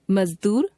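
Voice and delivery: मजदूर with a soft z in the middle; मजदूर as "mazdoor", with nukta. Shown as a demonstration. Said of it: "नुक्ता लगे ज तथा फ में कोमलता".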